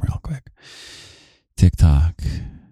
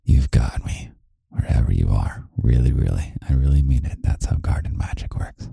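usual speaking voice

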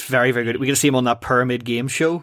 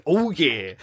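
Duffman catchphrase; 3 semitones higher than usual. Retold or imitated. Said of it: "really hard not to do that".

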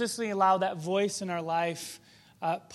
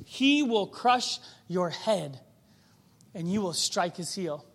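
slow emphatic reading; slower than usual. Shown as a demonstration. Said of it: "read then repeated".

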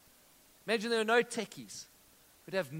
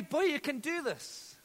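encouraging; 7 semitones higher, slower than usual. Retold or imitated. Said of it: "I had to tell you".

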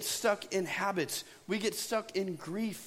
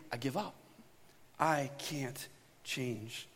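resigned defeat; 6 semitones lower, 6 dB quieter, slower than usual. Retold or imitated. Resigned despair in cycle.

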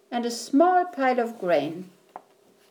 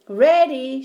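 loud, higher eager shout; 5 semitones higher, 7 dB louder than usual. A narrator's reading. Boy shouts back to his mother before the flip, eager shout. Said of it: "shouted Jack".

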